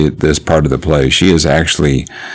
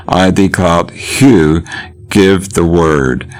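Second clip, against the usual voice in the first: mad king ranting; 3 semitones higher than usual. Acted. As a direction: tumble from image to image like a mad king. Teacher performs mad Lear's speech.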